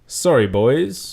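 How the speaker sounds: slow, drawn-out apology; slow smug Bert. Acted. Bert leaving the lads for his wife, slow and smug. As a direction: savour each word smugly. Bert excusing himself slowly.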